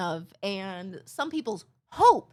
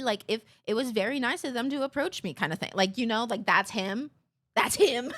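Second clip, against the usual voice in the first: overly apologetic rambling; 2 semitones lower than usual. Retold or imitated. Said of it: "And it's not in the".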